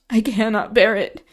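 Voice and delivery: put-on terrified boy begging Catherine not to leave; desperate pleading. A narrator's reading. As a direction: plead for your life through tears. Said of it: "he sobbed".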